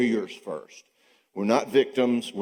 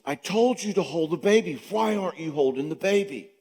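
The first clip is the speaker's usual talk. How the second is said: scolding wife; 7 semitones higher than usual. Retold or imitated. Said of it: "she comes out of the shower and she says".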